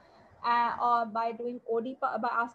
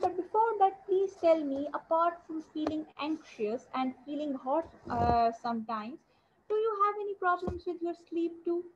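gentle doctor's question; 4 semitones higher than usual. Shown as a demonstration. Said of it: "the most good approach will be".

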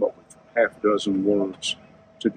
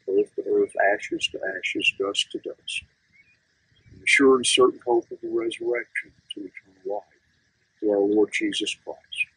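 hushed graveside prayer. Acted.

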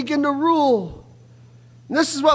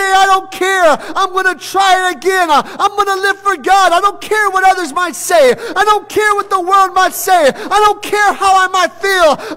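fervent vow; 4 semitones higher, 4 dB louder than usual. Acted. Preacher voicing believer's vow.

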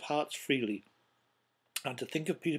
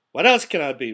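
loud, exasperated comeback; irritated retort; 13 dB louder than usual. A narrator's reading. Uncle answers being told not to be cross, irritated. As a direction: throw the question back crossly. Scrooge snaps back at nephew.

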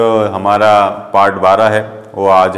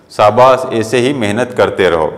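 praising. Shown as a demonstration. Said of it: "बहुत ही प्रसन्न होकर आपकी पीठ ठोकते हैं".

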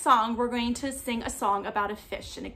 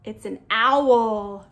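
ordinary talk, nothing marked

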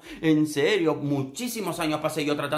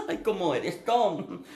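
high, gushing imitation of a crush; mock lovestruck; 5 semitones higher, much slower than usual. Contestant buttering up Tom, mock lovestruck and high. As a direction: coo at him like you're in love. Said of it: "en plan enamorado".

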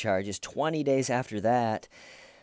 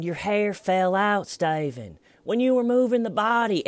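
high, loud, accusing; pushy interrogator; 11 semitones higher, 5 dB louder than usual. Retold or imitated. Red Shirt confronting the suspect about his hair, loud and high. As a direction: press the accusation right in his face. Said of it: "And he's going".

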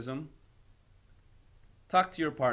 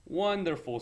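delighted; 5 semitones higher than usual. Acted. Cows delighted at tea idea.

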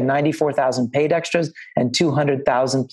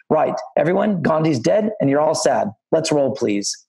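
imitating a film crew boss in a rough English accent; mock English accent over a microphone; bad English accent; 2 semitones higher than usual. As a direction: put on a hammy English accent, brisk announcement. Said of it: "in my terrible English accent".

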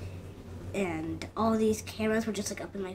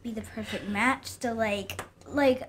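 higher, louder, sweet let-down voice; a girly mock let-down, pitched up; Gianna's answer; 6 semitones higher, 5 dB louder than usual. To the proposer on the Jumbotron, a higher, louder sweet let-down. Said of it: "That's a Gianna answer".

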